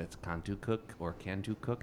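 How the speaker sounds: "Contoocook" then "Cantucook", trying both sounds; first "Contoocook" with a short o, then "Cantucook" with an a sound; unsure pronunciation. Shown as a demonstration. Naming a New Hampshire town, testing out two pronunciations. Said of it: "I'm gonna botch the pronunciation of it".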